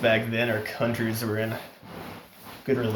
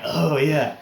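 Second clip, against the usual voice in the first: eager agreement; 3 semitones higher, 4 dB louder than usual. Retold or imitated. Acts out his eager agreement.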